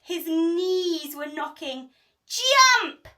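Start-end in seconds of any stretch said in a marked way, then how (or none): 2.3-3.1 high, loud barked order; loud yell. A narrator's reading. Pirates to the troll on the plank, loud yell. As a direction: yell at him to jump. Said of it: "yelled the pirates".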